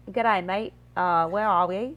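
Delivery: put-on hammy Australian accent, drawn out; slow, put-on Australian accent; Australian tourist. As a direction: imitate a lost Australian tourist. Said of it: "tourists come in from Australia".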